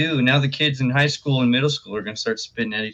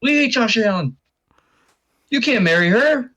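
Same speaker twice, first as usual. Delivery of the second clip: high mock fan voice; 12 semitones higher, 3 dB louder than usual. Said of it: "fans that are like".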